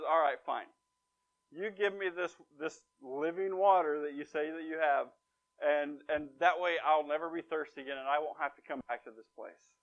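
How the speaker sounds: grudging, mildly irritated agreement; slightly perturbed. Acted. Woman gives in to Jesus about the living water, slightly perturbed. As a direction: give in with understated annoyance. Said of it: "this woman to be slightly perturbed".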